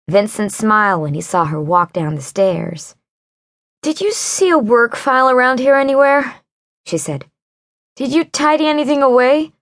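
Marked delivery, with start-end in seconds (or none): 3.8-9.5 frantic question. Acted. Wren searches frantically.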